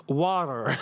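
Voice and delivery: American "Water", teasingly imitated; mock American accent. Mimics American way of saying water.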